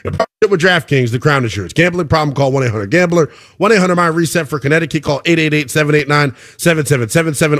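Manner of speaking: steady, run-on sponsor small print; ad disclaimer read. Acted. Radio host reading sportsbook terms to listeners, ad disclaimer read. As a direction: rattle off the legal terms evenly, like a radio read.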